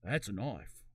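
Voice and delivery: attempted Australian accent with broad "knife"; Crocodile Dundee. Host quoting a film line, amateur Australian accent. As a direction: quote the film in rough Aussie. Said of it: "Crocodile Dundee".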